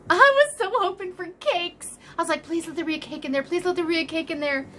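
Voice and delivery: high and eager; excited. Real, not acted. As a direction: gush with excitement. Excited opening the gift.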